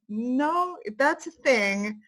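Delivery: slow, drawn-out mock awkward correction; awkward letdown. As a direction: imitate someone hesitantly breaking bad news. Younger women's awkward reply, retold.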